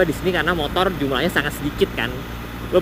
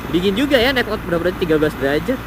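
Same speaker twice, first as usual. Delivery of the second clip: raised voice over the wind; shouting over wind; 4 semitones higher, 3 dB louder, faster than usual. Real, not acted. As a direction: call out over the rushing wind. Riding motorbike, wind very strong.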